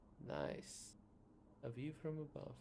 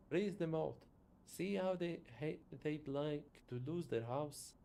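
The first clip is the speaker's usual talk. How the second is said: louder, contemptuous factory boss; scornful industrialist; 3 semitones higher, 4 dB louder than usual. Acted. Factory owner scorning workers asking for wages, loud and scornful. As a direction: sneer at the workers' demands.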